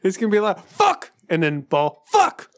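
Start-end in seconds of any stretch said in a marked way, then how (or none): 0.7-1.1 short, high, loud yell; imitated frustrated shout. Podcaster imagines himself drunk at skee ball, imitated shout. 2.1-2.5 short, high, loud yell; imitated frustrated shout. Podcaster imagines himself drunk at skee ball, imitated shout.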